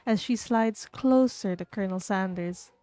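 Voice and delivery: measured, projected game narrator; story narration. A narrator's reading. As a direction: read the scene out like a storyteller. Narrates the game's scene.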